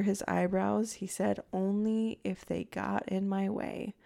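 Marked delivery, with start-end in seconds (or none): 1.5-3.9 slow, level imitation of his cold answer; retold in a slow, chilly monotone. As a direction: draw it out evenly with no emotion. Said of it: "cold, monotone voice".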